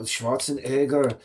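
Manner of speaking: slow Austrian-accented Schwarzenegger, final r dropped; imitated Austrian accent, drawn out; heavy Austrian accent. Shown as a demonstration. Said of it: "very heavy, uh, you know, breathy".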